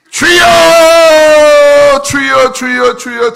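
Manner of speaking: long, loud, high cry, then subsiding; fervent prayer shout, fading. Shown as a demonstration. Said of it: "저도 그렇게 기도합니다".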